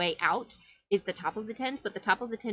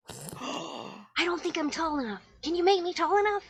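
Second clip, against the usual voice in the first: put-on much higher, small kid voice; little child; 8 semitones higher than usual. Child asking to be made tall, high kid voice. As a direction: plead like a tiny kid. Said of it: "this child goes".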